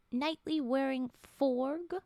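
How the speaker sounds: slow, loud, delighted disbelief; delighted surprise. Real, not acted. Streamer discovers frog emote, slow loud delight. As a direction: drag it out in happy amazement.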